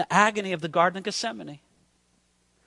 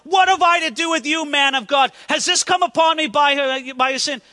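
higher, pleading outcry through grief; anguished crying out; 5 semitones higher, 3 dB louder than usual. Acted. Grieving widow to the prophet over her son, crying out. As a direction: cry out in accusation, mildly dramatized. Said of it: "she's crying out against the prophet".

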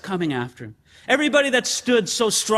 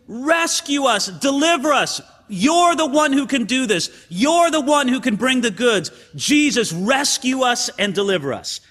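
cry for rescue; 3 semitones higher than usual. Retold or imitated. The crowd cries to Jesus for deliverance, imploring cry. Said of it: "it was a cry to Jesus".

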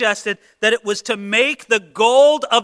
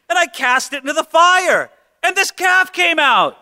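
higher, louder, slowed plea to his brother; Aaron pleading; 5 semitones higher, 5 dB louder than usual. Retold or imitated. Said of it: "So Aaron said".

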